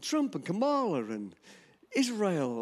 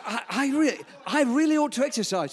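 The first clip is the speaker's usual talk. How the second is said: higher and louder, with a laugh in it; amused quote; 7 semitones higher, 6 dB louder than usual. Retold or imitated. Pastor retelling the nurse's admission with a laugh. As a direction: repeat her line again with relish, chuckling. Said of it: "This is what she said".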